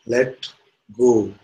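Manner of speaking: measured, separated words, lightly voiced God. God answers the hanging man, lightly voiced calm command. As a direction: pronounce it as a calm command, pausing between words. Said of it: "the voice says".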